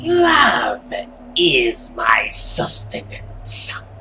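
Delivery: dramatic villain vow; grand declaration. Acted. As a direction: proclaim it like a hungry monster. Same line said twice.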